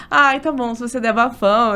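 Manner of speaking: teasing retold reply, amused; joking. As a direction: play along with the friend's joke. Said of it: "Ela falou brincando".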